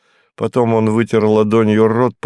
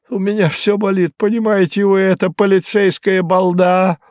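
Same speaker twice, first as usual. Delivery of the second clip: higher, rising protest; higher, rattled Hinkus, getting agitated; 10 semitones higher than usual. Acted. Hinkus refusing the detective's questions, higher and agitated. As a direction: push back, getting worked up. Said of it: "Hinkus complaining".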